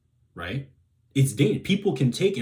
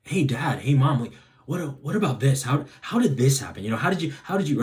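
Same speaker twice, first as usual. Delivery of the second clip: curious; 3 semitones higher than usual. Shown as a demonstration. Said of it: "Ask with curiosity towards your parent".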